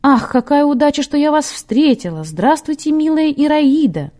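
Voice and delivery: high, delighted greeting, as if to a dear relative; overjoyed greeting. A narrator's reading. Nun greets an old acquaintance like her own mother, overjoyed. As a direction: greet them in a high, joyful voice. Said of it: "Монашка обрадовалась старому педерасту, как родной маме".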